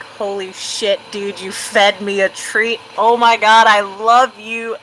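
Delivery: thrilled dog thanking you; a touch of a hyped-up pup; excited dog. Acted. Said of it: "Dog is like".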